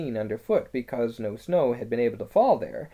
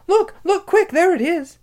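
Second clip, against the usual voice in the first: put-on high, loud, girlish cry; excited, high-pitched exclamation; urgent excitement; 10 dB louder than usual. A narrator's reading. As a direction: point it out urgently before it vanishes. Child spots the animal, urgent.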